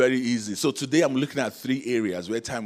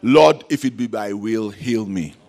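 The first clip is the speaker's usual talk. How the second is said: mock timid prayer; 9 dB louder, slower than usual. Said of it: "pray this prayer like this".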